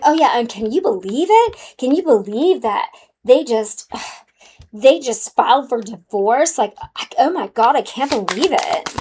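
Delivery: catty gossiping voice; sassy gossip. Retold or imitated. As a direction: dish it out like a gossip. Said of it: "I feel really sassy right now".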